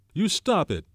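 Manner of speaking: high, loud shrill outburst. A narrator's reading. Piggy cutting off talk of murder, shrill. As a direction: snap it out shrilly, pitch leaping up. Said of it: "said Piggy shrilly".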